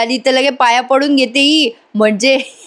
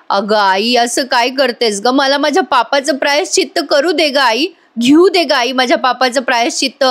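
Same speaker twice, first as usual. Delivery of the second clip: fake crying plea; 3 semitones higher than usual. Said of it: "Priya लगेच रडते पडते आणि म्हणते".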